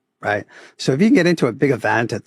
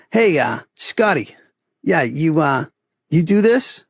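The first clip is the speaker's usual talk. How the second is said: put-on playful Boston accent, a bit higher; 4 semitones higher, slower than usual. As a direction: voice Tony with a broad Boston accent. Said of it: "I'll play the Boston accent as much as I can".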